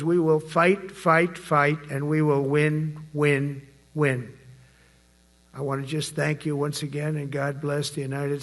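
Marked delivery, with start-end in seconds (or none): 0.0-4.3 rally speech. Real, not acted. Rally chant fight fight win.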